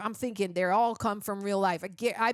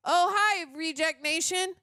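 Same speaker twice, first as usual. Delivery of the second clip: mock actor greeting; 5 semitones higher than usual. Reviewer greeting viewers in the lead's manner, mock cheery. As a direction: greet the audience as the bad actor would.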